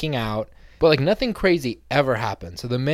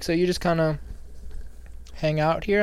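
higher, awkwardly polite question; mock polite higher voice; imitating the girl; 6 semitones higher than usual. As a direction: fish for small talk. Girl asks him questions.

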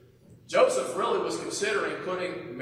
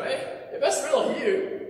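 Peter calling out; 7 semitones higher than usual. Retold or imitated. Peter's quote, high far voice.

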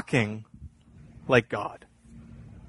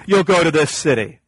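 James correcting; 3 semitones higher than usual. Acted. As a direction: interrupt to correct, leaning on each "if the Lord wills". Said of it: "He'd stop you and say".

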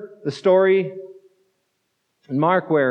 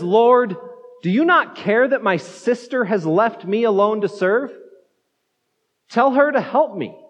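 mildly frazzled, pitched-up plea; frazzled complaint; 3 semitones higher than usual. Retold or imitated. Martha complaining to Jesus about her sister, mildly frazzled. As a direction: imitate a stressed woman appealing for help. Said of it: "in her frazzled state".

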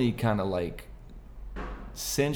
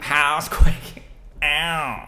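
slow, high and loud, stretched out; hammed-up pop-star shout; 6 semitones higher, 6 dB louder, much slower than usual. Answering a question with a song title, slow loud shout. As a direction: belt it out like a pop star.

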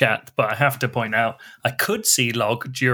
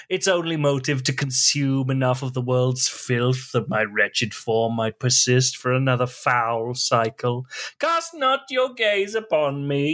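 wretched, wailing melodramatic lament; hammy tortured soul confessing; eldritch horror; slower than usual. Acted. Reads melodramatic product description.

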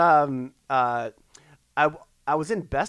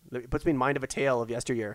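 mock storyteller; 3 dB quieter than usual. Mock old-time storyteller bit.

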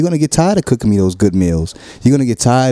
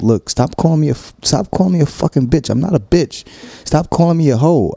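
imitating partner's complaint; 8 semitones higher than usual. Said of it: "you've told me plenty of times".

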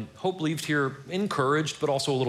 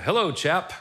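hammed-up British greeting, pitched higher; British accent; 5 semitones higher than usual. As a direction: put on your best mock British accent. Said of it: "That's my best British accent".

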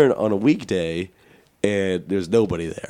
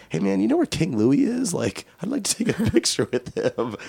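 eager asking; 6 semitones higher than usual. Retold or imitated. Asking teen worker for mascot.

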